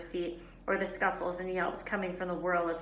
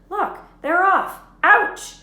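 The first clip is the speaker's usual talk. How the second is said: much higher and louder, a sudden yelp; excited, then hurt; 12 semitones higher, 15 dB louder, much slower than usual. Acted. Ron, watching the match, gets poked in the head: excited yelp. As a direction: cheer them off, then yelp at the poke.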